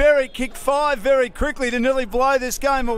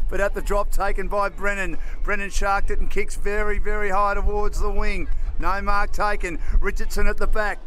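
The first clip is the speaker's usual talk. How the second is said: brisk football commentator calling the play; live play-by-play; 4 dB louder than usual. Acted. Caller describing the match to radio listeners, brisk play-by-play. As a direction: call each move as it happens.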